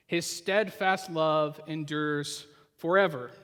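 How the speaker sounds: each word of the refrain drawn out slowly; slow, weighty reading of the refrain; slow emphatic refrain. Shown as a demonstration. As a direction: savour the refrain, slow and deliberate. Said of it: "We f-, hear it in other psalms".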